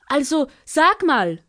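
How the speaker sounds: high, coaxing little bird voice; Ara spricht weiter. Acted. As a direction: keep flattering in a high bird voice. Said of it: "sprach sie weiter". (hohe, lockende Vogelstimme)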